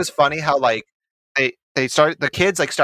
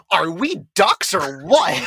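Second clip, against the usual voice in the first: mock rallying question; 3 semitones higher, slower than usual. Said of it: "another one of my favorite lines".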